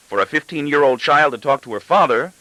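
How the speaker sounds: father mocking his daughter's phrase back; exclaiming father. A narrator's reading. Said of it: "I exclaim".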